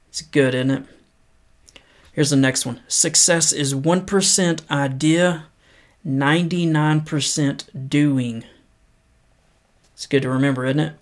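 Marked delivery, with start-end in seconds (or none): 2.9-8.4 measured, unhurried reading of a quote; paced motivational read; slow inspirational quote reading. Acted. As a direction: read it slow and earnest, letting each line land. Reads quote slowly.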